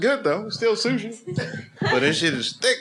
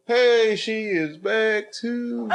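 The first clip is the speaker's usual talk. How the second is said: higher, slow mock British accent; imitating British accent; 9 semitones higher, much slower than usual. Teasing the British woman with a put-on accent. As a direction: stretch it out in a playful British accent. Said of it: "I wanna learn how to talk like you".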